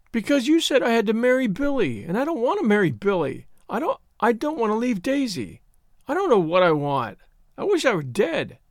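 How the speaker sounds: put-on high, upset young woman's wail; mildly tearful protest. A narrator's reading.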